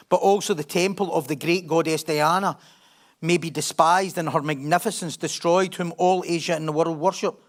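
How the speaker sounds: steady reading of Acts; scripture reading. Acted. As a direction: read the Bible passage aloud to the church. Reads scripture passage.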